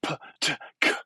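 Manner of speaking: bare unvoiced "p, t, k"; "p, t, k" puffed out as consonants only, without vowels; plosive exercise. Shown as a demonstration. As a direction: pop out "p, t, k" as separate voiceless bursts. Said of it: "is do this".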